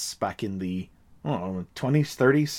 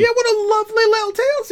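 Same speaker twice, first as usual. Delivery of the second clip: sarcastic; 4 dB louder, faster than usual. Acted. Mock praise of cheap drawing.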